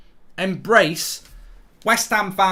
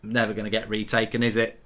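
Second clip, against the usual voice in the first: much lower, softer, quick and deflated; a deflated fan conceding; resigned mutter; 12 semitones lower, 6 dB quieter than usual. Real, not acted. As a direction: let it drop, giving up. Resigned after retake denied.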